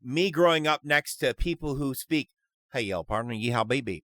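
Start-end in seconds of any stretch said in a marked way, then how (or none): 2.7-4.0 put-on generic Southern accent. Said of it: "most generic Southern accent".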